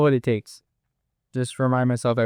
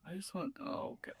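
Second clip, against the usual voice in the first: whispering; 7 semitones higher, 18 dB quieter than usual. Real, not acted. Nervous before tasting hot sauce.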